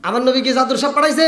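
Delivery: quick rhetorical question at normal pitch; brisk challenge. Shown as a demonstration. Preacher asks congregation about his Prophet, brisk challenge. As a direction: put it briskly to the crowd.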